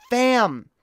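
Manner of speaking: loud, high "Fam!" in disbelief; exasperated shout. Real, not acted. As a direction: call it out like you can't believe it. Exasperated outburst at the argument.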